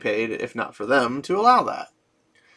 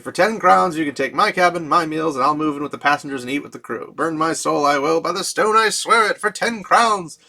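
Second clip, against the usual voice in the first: laughing; 4 semitones higher than usual. Retold or imitated. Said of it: "he begins to laugh so hard his words come out as a wheeze".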